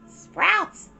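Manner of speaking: put-on little girl's triumphant yell; Mei shouting. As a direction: cry the answer with delight. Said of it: "Mei shouted".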